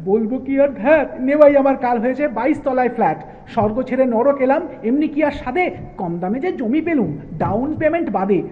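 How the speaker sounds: theatrical lament in comic verse; mock wailing. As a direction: complain loudly as if wailing, hammed up. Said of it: "ডুকরে এবার কাঁদেন কালী".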